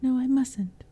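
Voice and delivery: mock-dramatic girl teasing the goblins; theatrical. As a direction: play it up for the shadows. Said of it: "addressed them theatrically".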